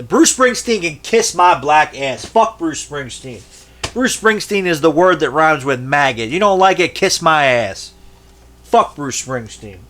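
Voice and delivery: loud, angry rant. Real, not acted. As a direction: tear into him angrily. Ranting at a singer.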